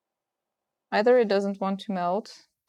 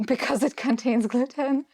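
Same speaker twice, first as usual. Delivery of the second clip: laughing, high and loud; 6 semitones higher, 5 dB louder than usual. Real, not acted. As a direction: laugh through the joke. Joking about gluten in dirt.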